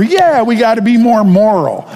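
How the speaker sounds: hammed-up dutiful yes; mock eager congregation. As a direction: chime in like a keen congregant.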